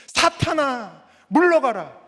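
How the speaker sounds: high, loud acted command; drawn-out, forceful banishment; shock-treatment rebuke. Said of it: "충격 요법을 쓰시는 거예요".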